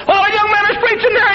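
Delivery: put-on high, thin old man voice; frail old man recalling; squeaky old man voice. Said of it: "in a squeaky voice".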